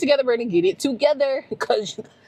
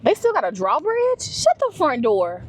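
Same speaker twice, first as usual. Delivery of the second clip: amazed; 5 semitones higher than usual. Real, not acted. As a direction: react like you can't believe it. Amazed at a drawbridge.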